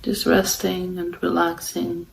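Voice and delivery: calm, unhurried meditation guidance with long pauses; guided meditation. Real, not acted. Meditation host guiding listeners to follow the breath, calm and unhurried. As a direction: guide them gently, leaving long silences between phrases.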